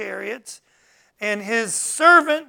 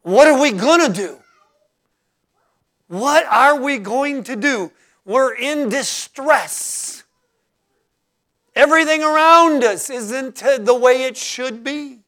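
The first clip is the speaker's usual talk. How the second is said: loud, high, slowing cry of distress; panicked servant; 5 semitones higher, 10 dB louder than usual. Acted. Servant to Elisha, surrounded by horses, voice in high loud panic. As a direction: plead in alarm, voice pitched up. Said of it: "it really means".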